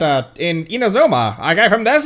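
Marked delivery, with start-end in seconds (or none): 1.4-2.1 put-on Mid-Atlantic accent. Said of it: "the dumbest Mid-Atlantic accent ever".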